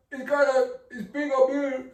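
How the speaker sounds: tentative TV host impression in accented English; Don Francisco. Shown as a demonstration. Comic workshopping a Don Francisco impression, hesitant accented voice. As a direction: try out the host's voice, feeling for it. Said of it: "work with my Don Francisco".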